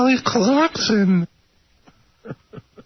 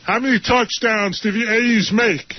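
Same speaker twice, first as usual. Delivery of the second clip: KC impression. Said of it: "It's K C".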